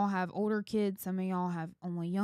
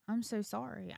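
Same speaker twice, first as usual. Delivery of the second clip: soft retold apology to the kids; sincere apology; 5 dB quieter than usual. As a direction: apologize gently, softly. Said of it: "go to my kids and be like".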